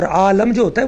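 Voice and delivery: "عالم" as AA-lam, meaning world; contrasting pronunciation. Shown as a demonstration. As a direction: explain "عالم" with a short a after the l. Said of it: "وہ جہان ہوتا ہے". ("عالم" لام پر زبر سے، آلَم)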